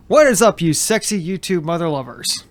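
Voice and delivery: lightly imitated YouTuber greeting, punched at the start; Brandon Herrera. Host greets viewers as a YouTuber, light impersonation. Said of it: "Brandon Herrera impersonation".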